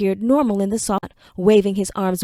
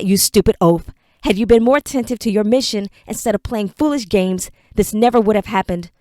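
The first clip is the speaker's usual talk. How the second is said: angry scolding. Acted. Lord berates servant.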